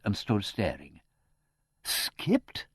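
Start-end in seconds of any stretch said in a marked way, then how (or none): 1.8-2.7 a high, breathless, half-voiced shriek of alarm. A narrator's reading. Spinster hearing her uncle has fled, high shocked shriek. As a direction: gasp the word out in fright. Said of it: "shrieked Miss Twitterton".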